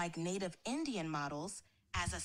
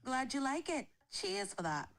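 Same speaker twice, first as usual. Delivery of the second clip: switched-on northern English accent, on request. Shown as a demonstration. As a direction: speak in a Northern England accent. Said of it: "A Northern England accent it is".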